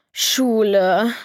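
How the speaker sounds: leicht gequältes Stöhnen über die Schule; gestöhnt. Acted. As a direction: das Wort genervt ausstöhnen. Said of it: "stöhnte Ellie". (ein Hauch von genervtem Stöhnen)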